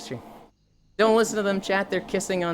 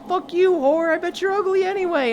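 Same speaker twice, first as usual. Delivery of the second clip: high, louder sneering voice of a rejected guy; mock angry creep; 14 semitones higher, 5 dB louder than usual. Rejected gamer insulting the girl, high mock snarl. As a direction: spit it like a bitter rejected man.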